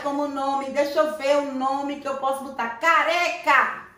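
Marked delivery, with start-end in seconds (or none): 2.8-3.9 "Careca" said slowly with a light tapped R; soft R sound. Shown as a demonstration. Teacher models the soft R in "Careca", slow and gentle. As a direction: tap the R in "Careca" softly and slowly. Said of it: "Tem o R que vem brando".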